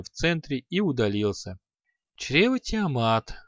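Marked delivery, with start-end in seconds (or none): 2.2-3.3 cursing. Acted. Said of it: "ругнулся Креол".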